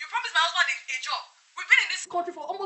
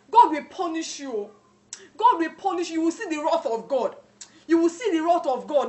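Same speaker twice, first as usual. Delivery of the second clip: louder, emphatic cursing with pauses between each; angry curse; 4 dB louder than usual. Acted. Wife cursing the agent who failed her, angrily. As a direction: pronounce divine punishment on him, forcefully.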